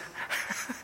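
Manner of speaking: quiet, voiceless chuckle; small self-mocking laugh; soft breathy laugh. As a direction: laugh softly under the breath. Laughs before admitting his mess.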